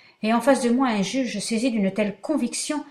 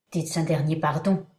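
sinister voice; 4 semitones lower than usual. Acted. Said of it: "d'une voix sinistre".

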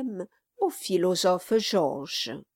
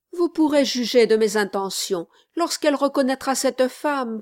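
louder, earnest, pressing appeal; earnest plea; 2 semitones higher, 4 dB louder than usual. Acted. Gentleman pleading with the newlyweds, earnest and insistent. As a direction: plead to see them.

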